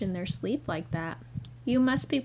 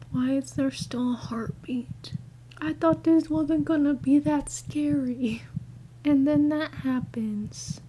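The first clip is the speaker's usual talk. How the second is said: scared whisper; 3 semitones higher than usual. Real, not acted.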